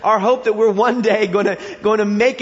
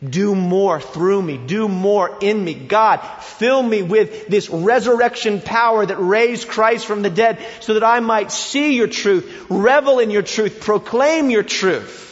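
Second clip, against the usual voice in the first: fervent prayer; 2 semitones higher, 4 dB louder than usual. Acted. Preacher voicing the believer who understands grace, building fervor. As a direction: pray hungrily, swelling as you go. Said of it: "You would be saying".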